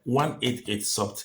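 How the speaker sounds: slow, spaced-out citing of the law; measured and careful, slowly word by word; clear, deliberate. Real, not acted. Commentator citing a section of the constitution, clear and deliberate. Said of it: "let me say this clearly".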